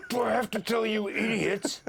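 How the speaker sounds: high, loud exasperated yell; mock nervous breakdown. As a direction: imitate a skipper losing it at the crew. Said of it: "The bloke had a nervous breakdown".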